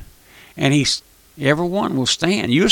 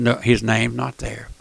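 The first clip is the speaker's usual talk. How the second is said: softer, slowing on the second; grave hushed repeat; 2 semitones lower, 5 dB quieter than usual. Acted. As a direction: let it fall quietly and heavily. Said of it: "he'll come back and he'll say".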